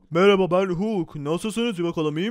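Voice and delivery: lightly voiced hammed-up Hulk; playful brute voice.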